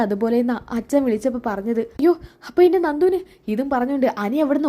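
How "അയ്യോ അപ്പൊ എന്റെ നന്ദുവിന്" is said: much higher and louder, despairing; a cry of dread for her; anguished cry. Acted. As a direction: son fearing the worst for Nandu. Son fears for injured lover.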